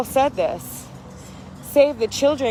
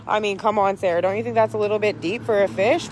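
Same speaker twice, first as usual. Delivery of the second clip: lightly voiced skeptic, lower and quicker; skeptical outsider; 4 semitones lower, faster than usual. Regular person doubting Sarah about the fish, lightly imitated skeptic. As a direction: question it like an unconvinced regular person. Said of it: "living regular life in these programs would say".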